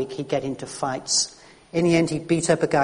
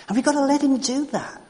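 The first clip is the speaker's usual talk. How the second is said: urgent emphasis; 10 semitones higher than usual. Real, not acted. Preacher urging the congregation.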